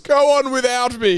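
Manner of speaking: mock heroic. Joking martyr line.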